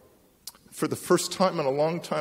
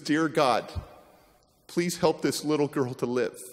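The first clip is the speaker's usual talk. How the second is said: quiet prayer. Retold or imitated. Wife praying softly over the drowned girl. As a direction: pray it quietly over her. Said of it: "and says".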